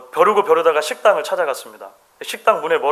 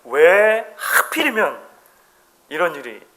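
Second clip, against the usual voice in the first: complaining why me; slower than usual. Retold or imitated. Preacher voicing people cursing their luck, mock complaint. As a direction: whine about rotten luck, stretching the first words. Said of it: "이렇게 이야기하는 거죠".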